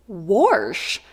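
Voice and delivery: "Wash" with an R slipped in, like "warsh"; Missouri pronunciation. Retold or imitated. Vlogger echoes classmate's word, "Wash" said as "warsh". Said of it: "so lots of Missouri accents".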